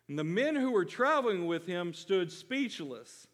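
ordinary talk, nothing marked

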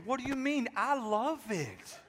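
mock-heartbroken wife's voice. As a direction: play the wounded wife, half laughing. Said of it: "you're like heartbroken".

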